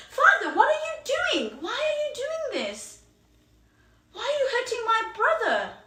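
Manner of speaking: a sister rushing to defend her brother; pleading sister. Acted. Sister begging father to stop hitting brother, high loud pleading. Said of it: "And she said".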